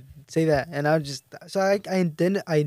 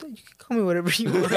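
put-on laughing kid; faster than usual. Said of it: "I'd be like".

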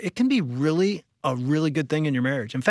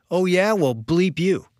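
retold yell back; 4 semitones higher than usual. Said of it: "I yell back".

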